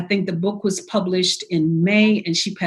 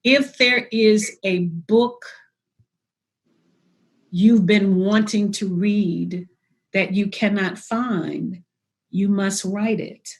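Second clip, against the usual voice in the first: recited quote; slower than usual. Retold or imitated. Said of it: "I'll try to say it as best I can".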